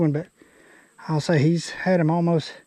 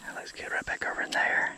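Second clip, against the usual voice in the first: whisper; 18 dB quieter than usual. Real, not acted. Moving quietly toward the next fishing spot, whispering. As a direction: keep it low so the fish stay put.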